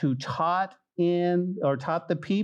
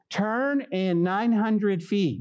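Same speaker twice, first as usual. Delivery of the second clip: GPS voice; 3 semitones higher, much slower than usual. Acted. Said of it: "it'll tell us way in advance".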